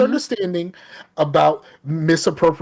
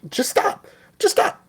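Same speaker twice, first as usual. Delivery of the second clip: retold exasperated yell. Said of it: "tell you twenty times".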